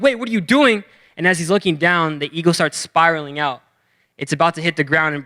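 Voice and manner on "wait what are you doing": high-pitched startled question; mock alarm. Farmer seeing the eagle thrown off, mock alarm. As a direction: cut in with pitched-up disbelief.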